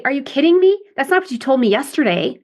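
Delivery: a hint of an offended employee; adaptive child. Shown as a demonstration. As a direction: push back like a put-out employee. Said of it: "That's kind of adaptive child".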